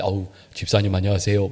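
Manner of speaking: put-on pious, sanctimonious tone, low and solemn. Mimicking a showy greeting to a deacon, in a mock-holy voice laid low. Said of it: "거룩한 목소리로 이렇게, 이렇게 쭉 깔아서".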